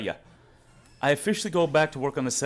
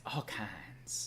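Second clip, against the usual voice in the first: low, soft catchphrase imitation; Hodge twins; 7 semitones lower, 12 dB quieter than usual. Streamer repeating twins' catchphrase, lightly imitated. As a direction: lightly mimic it, dropped low and quiet. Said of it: "Hodge twins would say".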